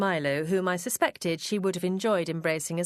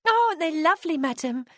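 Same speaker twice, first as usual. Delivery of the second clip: much higher and louder, gushing maid; delighted; 10 semitones higher, 4 dB louder than usual. A narrator's reading. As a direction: gasp with delight at the roses. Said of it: "she said with delight".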